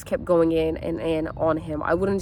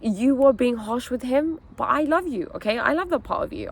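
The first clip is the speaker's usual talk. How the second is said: higher-pitched, gentle talk to yourself; non-shaming self-talk; 5 semitones higher than usual. Retold or imitated. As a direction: own the fault, then reassure yourself. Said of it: "I didn't shame any part of myself".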